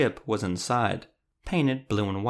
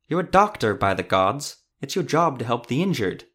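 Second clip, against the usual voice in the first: indignant; 4 dB louder than usual. Acted. Arthur urges doctor to help.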